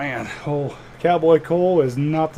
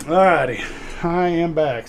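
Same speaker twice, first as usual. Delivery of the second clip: panting after running; catching breath between words; 3 semitones higher, slower than usual. Real, not acted. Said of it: "Sorry I'm out of breath 'cause I was running".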